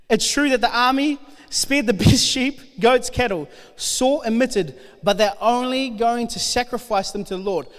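steady, earnest Bible reading to the congregation; scripture reading. Acted. Preacher reading First Samuel to the congregation, earnest. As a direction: read it out like the passage matters. Reads Bible passage aloud.

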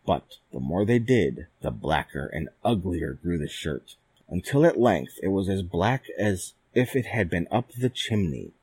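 plain reading voice

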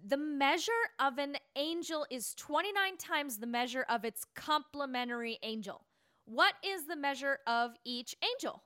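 low quizmaster reading with "angel" for angle; angle mispronounced as angel. Acted. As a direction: say "angel" as AIN-jel where angle is meant. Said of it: "you mispronounced angel".

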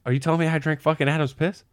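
high, appalled question; retelling disgusted disbelief; mock horrified disbelief. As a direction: ask it like your stomach just dropped. Horrified realization quoted.

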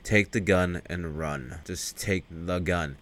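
low, slow, controlled command; mock menacing order. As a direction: imitate a cold bad cop, slow and low. Bad cop ordering victim, acted.

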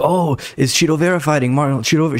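fired up. Retold or imitated. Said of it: "She, like, got fired up".

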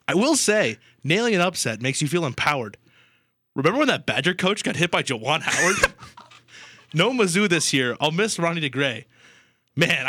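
bouncy, rhyming poem read with sing-song lifts; poem recital. Acted. Host reads his homemade March poem to co-host, playful recital. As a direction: recite it like a proud playful ode.

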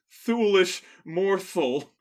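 slow, clumsy vampire line through fangs; vampire with fake fangs. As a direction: ham it up like fangs get in the way. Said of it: "It's much more like".

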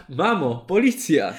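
drawn-out, playful warning call; mock parrot cry. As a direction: play a parrot calling out the alarm. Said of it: "Papuga krzyczała".

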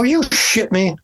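high pitched, surprised; high disbelief. Retold or imitated. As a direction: squeak it in disbelief. Retold disbelief.

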